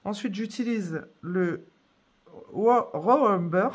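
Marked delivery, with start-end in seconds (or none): 2.5-3.7 "Raw Umber" attempted haltingly, French mouth on English words; struggling to pronounce. Real, not acted. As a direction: stumble slowly into "Raw Umber" with a false start. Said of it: "J'ai vraiment du mal". (prononciation laborieuse de « Raw Umber »)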